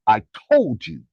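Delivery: drawn-out triumphant told-you-so; gloating. Real, not acted. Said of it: "Gee, ego activation".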